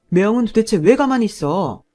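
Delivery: a frustrated brother shouting at his silent brother-in-law; angry demand. Acted. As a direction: yell it across the room at him. Husband yells at brother-in-law.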